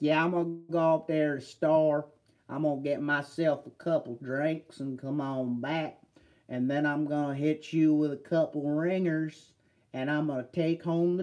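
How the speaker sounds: put-on Mississippi accent. Joking about doing live streams together: talking in Mississippi accent. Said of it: "I have to start talking Mississippi accent".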